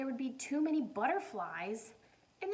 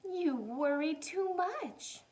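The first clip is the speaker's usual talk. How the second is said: mother voice; 4 semitones higher, 4 dB louder, slower than usual. Acted. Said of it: "said her mother".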